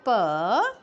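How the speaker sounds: प as a bare "puh" with neutral vowel; letter sound. Shown as a demonstration. Teacher giving the sound of pay, प sounded as "puh". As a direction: sound out प, not its letter name. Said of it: "पे की sound होती है".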